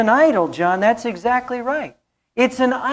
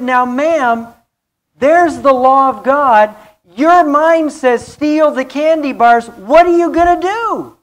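higher and louder, building; preacher building to a cry; rising preacher shout; 6 semitones higher, 6 dB louder than usual. Real, not acted. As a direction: drive it up to a shout. Pastor builds to shouted question.

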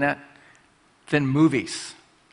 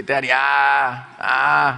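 put-on child's voice; 3 dB louder, much slower than usual. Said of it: "they would say".

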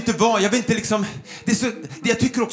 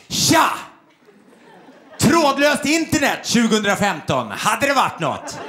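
pushy big-city complaint. Retold or imitated. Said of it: "hoppas här att det blir rätt sida".

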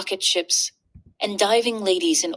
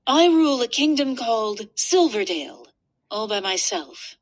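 princess voice; 2 semitones higher than usual. Acted. Princess boasts of kingdom.

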